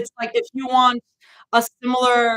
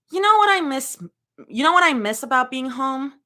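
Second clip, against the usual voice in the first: a hint of a wistful sigh, higher; lightly voiced Zoe; 3 semitones higher, 4 dB louder than usual. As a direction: Zoe musing after an exhale. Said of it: "Zoe asks with another deep exhale".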